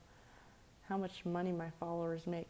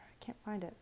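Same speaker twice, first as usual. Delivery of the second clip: whispered; 4 semitones higher, 5 dB quieter than usual. Real, not acted. Searching in a hushed voice.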